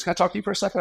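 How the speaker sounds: lightly voiced friend, casual and friendly; a hint of the friendly pastor; pastor friend, voiced high. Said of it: "He goes".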